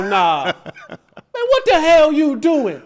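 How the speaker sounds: loud, high outburst, slow on the question; retold shout. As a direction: yell it across the room, outraged. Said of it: "It wasn't a whisper".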